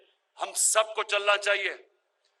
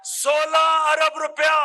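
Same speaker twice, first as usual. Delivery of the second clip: louder, slow, drawn-out sum; emphatic outcry; 4 semitones higher, 5 dB louder, slower than usual. Real, not acted. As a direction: hammer the huge figure slowly to the crowd. Rally speech, stressing the sum. (ज़ोर देकर धीमी ऊँची पुकार)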